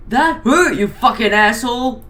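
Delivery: villain screaming after being shot; mild mock scream. A narrator's reading. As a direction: yelp at the shot like a cartoon villain. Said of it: "Mac screamed".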